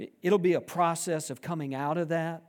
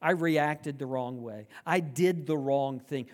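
sincere apology; 4 semitones lower than usual. Retold or imitated. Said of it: "coming to you and saying".

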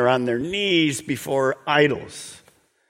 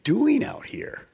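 urgent disciples; 6 semitones higher than usual. Acted. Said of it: "they say to him".

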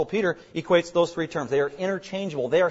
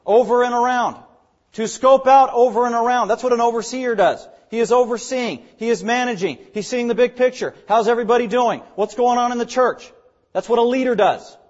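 higher, punched-out teaching phrases; emphatic preaching; 5 semitones higher, 6 dB louder than usual. Real, not acted. Preacher explaining an overseer's job to the church, emphatic. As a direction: press each phrase on the listeners.

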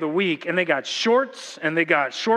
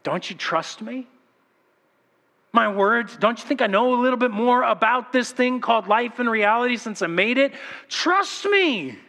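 1 gentle voice of God; 4 semitones higher than usual. Acted. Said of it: "Do you hear God's words?".

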